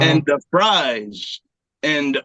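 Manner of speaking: put-on halting Mexican accent turning French; badly faked Mexican-French accent; botched Mexican accent. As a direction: fumble through a fake Mexican accent. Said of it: "You want Mexican?".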